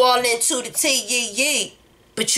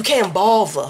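Washington D.C. accent, "bother" said with v; 3 semitones lower than usual. Teaching a phrase for everyone to say together: D.C. accent, v in bother. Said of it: "with the D.C. accent, with the V".

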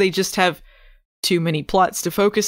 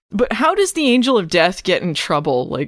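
ordinary delivery

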